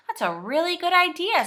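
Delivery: high, loud, pleased exclamation; delighted. A narrator's reading. Joe hears of the washing-basket lift, delighted. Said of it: "said Joe, delighted".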